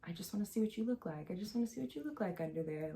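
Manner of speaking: soft, hurried imitation of a creep; creepy. Boy trying to lift up her blanket, creepy and hushed. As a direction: quietly mimic someone being creepy. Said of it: "went on to be very creepy".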